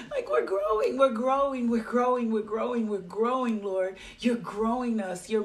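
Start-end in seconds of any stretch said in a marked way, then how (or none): 0.0-4.0 excited outburst. Retold or imitated. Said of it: "I was like".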